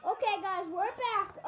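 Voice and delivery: excited intro. Real, not acted. Vlog restart intro.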